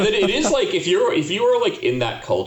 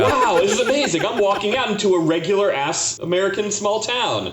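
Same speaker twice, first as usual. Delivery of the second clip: mock amazement; 9 semitones higher than usual. Mock wonder at theme song.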